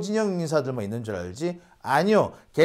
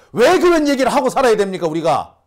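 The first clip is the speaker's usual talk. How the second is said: exasperated; 4 semitones higher, 6 dB louder than usual. Real, not acted. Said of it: "exasperated rhetorical question".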